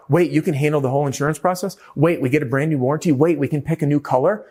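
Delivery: quick, eager questions, each opening on "Wait"; the customer lighting up at good news; thrilled homeowner; excited customer. Acted. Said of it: "Anything that gets them excited".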